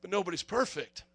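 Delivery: soft, sheepish excuse to the cop; mock-innocent murmur; meek excuse. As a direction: drop the voice and plead innocence. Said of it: "And I go".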